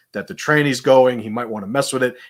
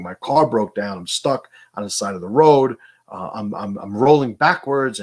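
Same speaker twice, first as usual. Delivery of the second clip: mild mock yell, louder, panicky rising end; retold yelling; 4 dB louder than usual. Stranded lady yelling that her car rolls back, mild mock yell. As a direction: imitate a stranded driver calling out in alarm. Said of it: "I hear a lady, you know, yelling".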